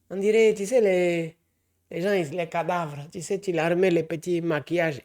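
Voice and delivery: put-on a light Ivorian French accent, joking. Ranting about TikTok makeup in a light Ivorian accent. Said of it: "coupé accent ivoirien".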